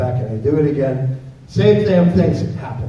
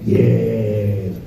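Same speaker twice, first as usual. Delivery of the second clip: put-on creepy kid; 5 semitones lower, much slower than usual. Eerie child beckoning.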